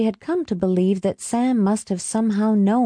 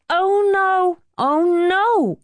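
high, incredulous protest; almost laughing; 13 semitones higher, 3 dB louder, slower than usual. A narrator's reading. Helen denying the blame, almost laughing. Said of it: "almost laughing".

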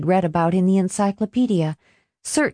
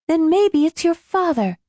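worried; 11 semitones higher than usual. Acted. She fears being caught.

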